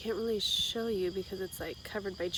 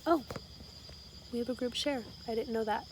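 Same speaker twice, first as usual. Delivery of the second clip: higher, surprised realization; 4 semitones higher, faster than usual. Retold or imitated. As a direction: react as if it's news. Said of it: "I'm like".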